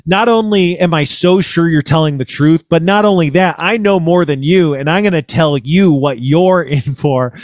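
mock know-it-all, pitched a little up; really smug. Host outdoing his caller's claims, mock smug. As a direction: imitate someone smugly sure of himself. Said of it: "like, really smug".

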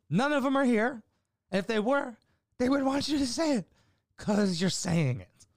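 high-pitched acted protest; heckler's high, incredulous pleading; exasperated heckle. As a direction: argue back high and insistent. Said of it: "I almost wanted to fucking heckle".

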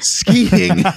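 high, loud mocking echo. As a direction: parrot it back high. Echoing in a high voice.

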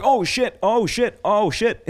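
high, panicked repeating; scared teens freaking out at a gun; panicked kids. Retold or imitated. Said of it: "they're like".

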